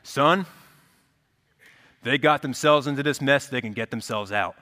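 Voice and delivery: lightly voiced stern movie dad; a hint of a gruff sitcom father; teenage movie dad voice. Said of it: "that's my teenage dad movie voice".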